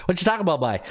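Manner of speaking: hint of Newfoundland accent in a retort; Newfoundland twang. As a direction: mimic a Newfoundlander's East Coast speech. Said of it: "a different twang when they speak".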